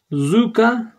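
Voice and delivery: Zuka read out high and drawn as a word to learn; Kurdish word zuka. Shown as a demonstration. Teacher slowly pronouncing Zuka for students. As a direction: say Zuka clearly for the class. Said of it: "zu çabuk demek".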